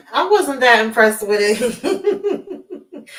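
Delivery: breaking into a chuckle at the end; amused reluctance. Real, not acted. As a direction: let a laugh spill out after the words. Amused, apologetic critique.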